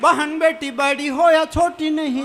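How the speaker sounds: slow, measured recitation; poem recital. Acted. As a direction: declaim the verse gravely. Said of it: "चार पंक्तियां पढ़ता हूँ".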